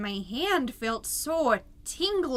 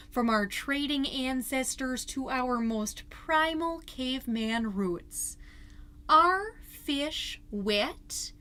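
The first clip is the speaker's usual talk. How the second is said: solemn reading. Acted. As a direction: read it like a profound essay.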